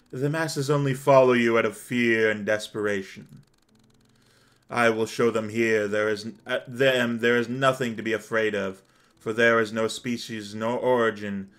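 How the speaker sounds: lightly voiced righteous warrior; understated, solemn declaration; Gabriel. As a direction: deliver a measured, stern rebuke. Plays Gabriel in the story.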